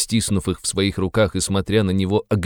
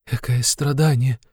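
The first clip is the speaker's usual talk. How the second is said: tormented wail; 6 semitones higher than usual. A narrator's reading. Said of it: "вырвался мучительный вопль у Сони".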